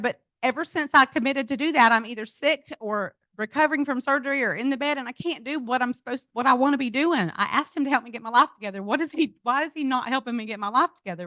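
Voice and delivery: high-pitched whiny complaint; tearful mock whine to her husband; whining. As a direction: plead like a frustrated child. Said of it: "And so I'm just whining".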